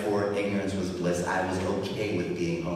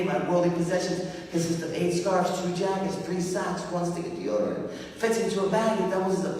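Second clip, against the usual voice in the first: pitched up, tight and raw; strained raised voice; 8 semitones higher than usual. Real, not acted. Telling the audience his few belongings in a strained, raised voice. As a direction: push the list out high and strained. List told at emotional peak.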